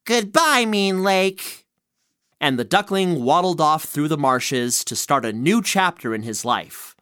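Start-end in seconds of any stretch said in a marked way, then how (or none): 0.0-1.7 hurt yell. A narrator's reading. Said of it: "it hurt to yell at them".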